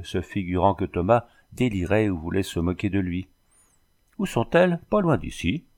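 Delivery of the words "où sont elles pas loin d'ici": "Où sont-elles?" jumps much higher with a rising tune; teasing echo, high rising "sont-elles"; mocking echo. A narrator's reading. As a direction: toss the question back, pitched way up. Bandit mockingly echoes the question.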